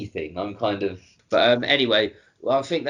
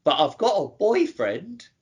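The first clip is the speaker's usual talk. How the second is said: high, slow put-on voice; character impression; 5 semitones higher, slower than usual. Co-host imitating a Ricky character, put-on voice. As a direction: draw it out high in a silly character voice. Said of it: "I'm gonna do it in the voice".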